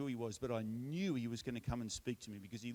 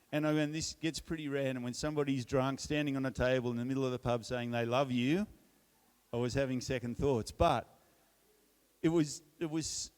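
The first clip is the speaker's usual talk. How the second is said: normal talking voice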